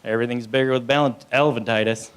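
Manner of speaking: put-on Texas accent; mock Texas accent. Sufferer bragging about elephantitis, mock Texas accent. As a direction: boast in an imitated Texas accent. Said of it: "usually not in that accent".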